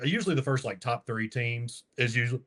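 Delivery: talking through hiccups; words broken by hiccups. Real, not acted. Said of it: "I got the hiccups".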